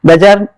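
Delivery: बाजार repeated as bə-JAAR with a slight rise; बाजार confirmed, two syllables bə-jaar; correct pronunciation. Shown as a demonstration. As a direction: restate बाजार, bə-JAAR, as the exact form. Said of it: "इसका exact pronunciation यही है".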